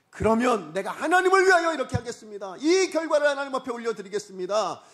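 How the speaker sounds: high, loud bargaining with God; impassioned mock prayer. Believer promising God service if given money and status, impassioned prayer.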